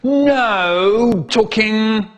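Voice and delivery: slow, loud, drawn-out teacher command; stern teacher order. Retold or imitated. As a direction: lay down the law word by word. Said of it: "The teacher said".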